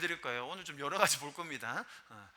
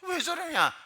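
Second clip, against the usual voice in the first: disgusted; 11 semitones higher, 3 dB louder, slower than usual. Retold or imitated. Audience frowning at drag queens.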